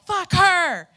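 loud, high mock yell at a canvasser; hammed-up shouted insult, pitched high; retold yell. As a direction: bark it out as the angry man did. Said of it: "He yelled".

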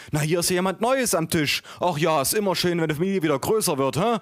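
high-pitched chatty waitress; waitress cooing. A narrator's reading. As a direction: address a baby in a high voice. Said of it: "wandte sich an den Kleinen".

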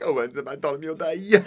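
loud, high, drawn-out caricature; mock dad. Mocking dad in acted scene.

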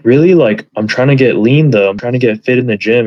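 mild mock surprise, lifted at the start; shocked disbelief. Retelling how people react to diet advice, mildly shocked. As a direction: imitate someone protesting in disbelief. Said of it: "most people are pretty shocked".

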